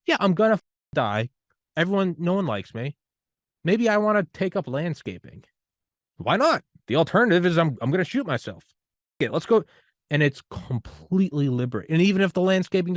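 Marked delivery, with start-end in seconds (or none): 0.1-9.6 high, loud rally cry; pumped-up motivational voice; fired-up pep talk. Acted. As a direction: hype him into going for it. Pep talk, mock desperate listener.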